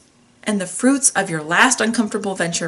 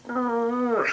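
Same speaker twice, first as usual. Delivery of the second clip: disgusted groan; 6 dB quieter than usual. Retold or imitated. Host reacting to the advice they repeat to themselves, disgusted groan. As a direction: let out a reluctant ugh. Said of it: "I feel like".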